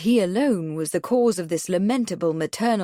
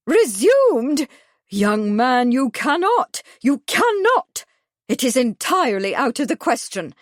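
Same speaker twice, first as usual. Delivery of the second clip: shrieking high and loud in horror; voice up an octave; 5 semitones higher, 5 dB louder than usual. A narrator's reading. Miss Truebody shrieks at the young man in horror. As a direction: climb higher with each cannot. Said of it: "her high voice went up yet another octave".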